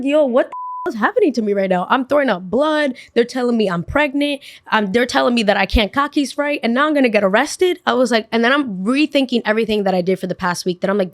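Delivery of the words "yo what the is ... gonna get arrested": high-pitched, incredulous listing of woes; acted-out exasperated freak-out; retold panicked rant. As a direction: pile up the troubles in raised-pitch disbelief. Retold panicked rant about her troubles.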